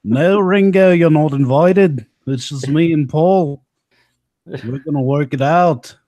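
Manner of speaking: playful mock rock-star voice; lightly voiced band member. Voicing one band member to another.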